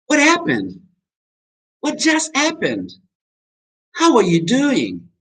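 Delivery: high, slow, concerned questions; worried. Shown as a demonstration. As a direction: ask with emphatic concern, drawing it out. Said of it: "énfasis en que estoy preocupado".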